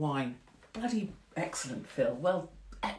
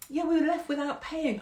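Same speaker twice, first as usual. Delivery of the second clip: imitating husband; 8 semitones higher than usual. Imitating husband's reply in pub story.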